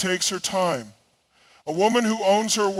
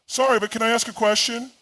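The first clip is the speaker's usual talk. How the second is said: apologetic; 4 semitones higher, faster than usual. Acted. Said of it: "unconsciously say sorry far too often".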